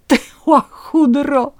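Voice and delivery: slow, high, loud insult; tearful shout. A narrator's reading. Wife to the husband who faked it, tearful angry shout. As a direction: cry it out through tears, drawing out the words. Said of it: "krzyknęła przez łzy".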